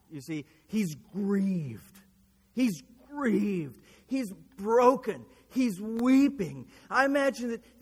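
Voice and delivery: forceful preacher leaning on key words; impassioned preaching. Real, not acted. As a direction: preach the grief with weight and drawn-out stresses. Preaches Peter's grief at rising force.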